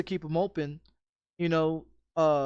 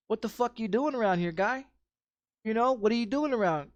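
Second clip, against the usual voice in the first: confronting a stranger; 5 semitones higher than usual. Retold or imitated. Confronting stranger outside his home.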